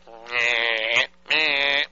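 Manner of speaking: nasal meh meh beeps; imitated busy signal. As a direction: mimic a broken busy tone. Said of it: "It's like".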